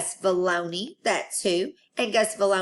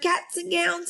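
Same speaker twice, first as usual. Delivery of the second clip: high group-style holler; class hollering; 11 semitones higher than usual. Acted. Room nine hollering the good news. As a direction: shout it like the whole class. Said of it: "hollered room nine".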